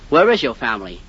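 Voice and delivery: ordinary talk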